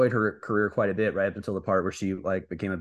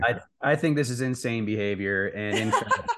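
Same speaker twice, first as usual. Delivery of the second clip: laughing. Real, not acted. Laughing while joking.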